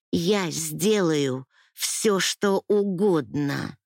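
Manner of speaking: very slow, hollow repeat of the vow; a slow, emptied-out promise; numb repeat. Acted. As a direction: say it slowly, drained, pressed to the wall. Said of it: "повторила я".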